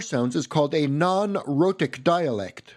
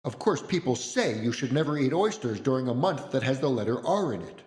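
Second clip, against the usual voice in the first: offhand, slightly quieter quote; casual mention; 2 semitones lower, 4 dB quieter than usual. Retold or imitated. Mom casually mentions an old saying, offhand. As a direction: toss it off as common knowledge. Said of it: "she just casually mentioned".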